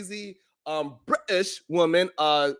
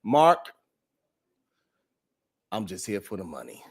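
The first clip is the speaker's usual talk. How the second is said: mock quote; 11 semitones lower, 4 dB quieter than usual. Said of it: "she says".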